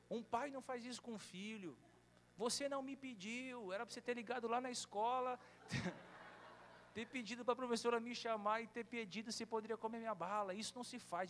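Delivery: a son lecturing his dad about candy; indignant child. Retold or imitated. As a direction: scold like an offended kid.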